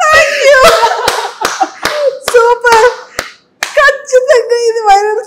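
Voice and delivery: a real laughing cry of delight, high and loud; real delighted laughing yelp; laughing shout. Real, not acted. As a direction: burst out laughing in shock. Reacts to the romantic dialogue.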